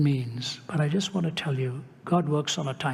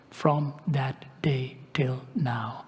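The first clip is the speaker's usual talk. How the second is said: slow, breathless hush of wonder; awed whisper; slower than usual. Real, not acted. Preacher telling the crowd about his healed back, in a slow awed whisper. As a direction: let it drop to an awed whisper.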